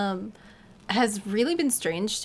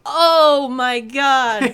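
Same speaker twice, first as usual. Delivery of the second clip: slow, loud stunned oh my god; 3 semitones higher, 11 dB louder, much slower than usual. Retold or imitated. Streamers recognizing their fan, slow loud stunned. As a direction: drag it out in shock. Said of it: "we were like".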